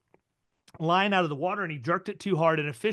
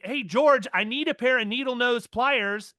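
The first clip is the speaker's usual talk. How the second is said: calling out; 5 semitones higher than usual. Retold or imitated. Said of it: "So I yell up".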